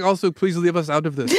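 mock German-accented plea. Germans asking to be left out of it, German accent. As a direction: play a German begging off in a light accent. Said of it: "Whereas with the Germans".

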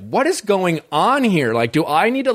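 stretched-out, puzzled questioning; mock bewilderment. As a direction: imitate a contestant who is totally lost. Voicing a bewildered contestant.

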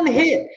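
"one hit" pitched far up, each word weighed; emphatic one hit. Real, not acted. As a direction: lift "one" high to stress how small the ask is. Repeating for emphasis.

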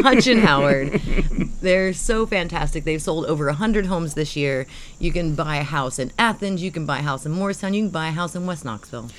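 upbeat radio ad voice; ad read. Acted. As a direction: sell it like a local commercial. Ad read for sponsor.

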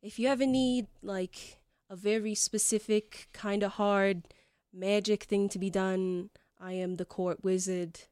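hesitant fantasy Long Island court wizard; sheepish Long Island accent. Acted. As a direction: feel your way through it in a light Long Island accent. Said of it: "nods sheepishly and he says".

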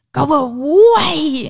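loud, high, drawn-out mock toddler wail; screeching toddler imitation. Mom imitates crying son in the car, screeching toddler. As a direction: stretch it into a crying child's screech. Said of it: "Elijah was crying and screeching".

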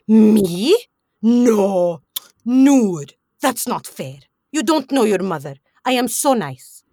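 drawn-out, loud opening protests, then easing off; mock-indignant mom. Mom denying she was ever mean, mock indignant. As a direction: imitate a mother protesting her innocence. Imitating a mother's indignant denial.

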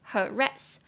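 "harass" stressed on its last syllable, ras; second-syllable stress. Shown as a demonstration. Teacher demonstrating "harass", stress on the second syllable. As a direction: lean on "rass" in "harass". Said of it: "重音节在第二音节".

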